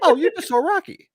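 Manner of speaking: high, loud hammed-up taunt; mock taunt. Riffing on the Eddie Murphy bit, mock taunting voice. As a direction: tease like a pumped-up fan. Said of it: "Eddie Murphy's stand-up thing".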